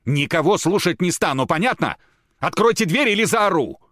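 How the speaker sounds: high, loud threat to scream. Acted. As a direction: build to a shriek.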